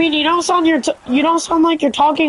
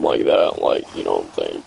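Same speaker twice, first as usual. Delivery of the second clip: weird deep Black Ops voice; 5 dB quieter than usual. Pretend. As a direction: drop the voice way down. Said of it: "that weird Black Ops three voice I do".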